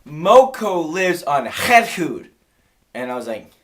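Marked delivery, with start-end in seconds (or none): 0.1-2.2 slow, loud, higher mock Chinese accent; emphatic Chinese-accented directions; imitated Chinese owner. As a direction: announce it slowly in a Chinese accent. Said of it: "she says".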